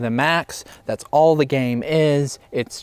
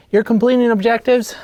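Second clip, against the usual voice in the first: whisper; 6 semitones higher, faster than usual. Acted. Whispered aside.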